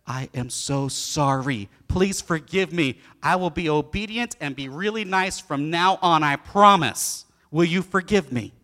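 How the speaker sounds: a touch of a sheepish penitent parrot; meek parrot apology. Acted. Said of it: "looks at her and says".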